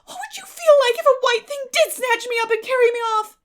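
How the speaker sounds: high, loud, frantic pleading; terrified plea. A narrator's reading. Anne pleading with Marilla, terrified and loud. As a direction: plead like she'll be carried off.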